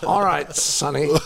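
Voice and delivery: mock-patronising Sonny; teasing. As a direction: talk down to him playfully. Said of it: "Stop that".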